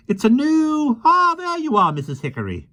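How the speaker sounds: put-on high, lively voice of a small old man; gentle, chatty little fellow; kindly little man. Mister Mo speaks.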